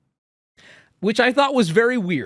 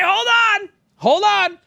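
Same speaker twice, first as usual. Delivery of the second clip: sudden stop; 4 dB louder than usual. Real, not acted. Stops himself mid-story.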